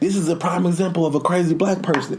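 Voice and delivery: put-on high, aggrieved kid voice; imitated complaining boy. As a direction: mimic a child pleading his case.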